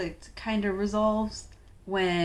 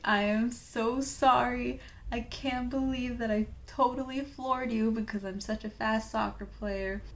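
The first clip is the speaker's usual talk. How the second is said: hammed-up apology; 4 semitones higher than usual. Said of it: "He doesn't say it like that".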